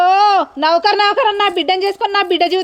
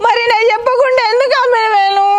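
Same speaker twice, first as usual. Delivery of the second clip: crying reproach; 4 semitones higher than usual. Acted. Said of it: "ఎందుకు ఏడుస్తున్నావు?".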